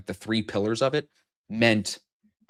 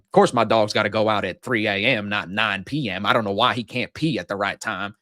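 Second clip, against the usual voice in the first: put-on Southern accent. Host mimicking a podcast guest talking about his dog, Southern accent. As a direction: lay on a folksy Southern accent. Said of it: "he's got this Southern accent".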